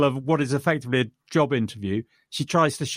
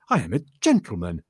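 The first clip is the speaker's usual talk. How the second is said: horrified; 6 semitones lower than usual. Retold or imitated. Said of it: "And he says, horrified".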